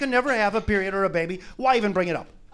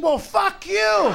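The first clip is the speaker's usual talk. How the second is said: angry retort; 10 semitones higher, much slower than usual. Acted. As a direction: throw it back at her with scorn. Retort to the feminist.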